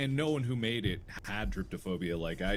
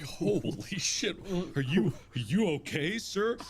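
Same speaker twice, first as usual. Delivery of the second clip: shocked concern; 9 semitones higher than usual. Retold or imitated. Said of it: "And I'm just like".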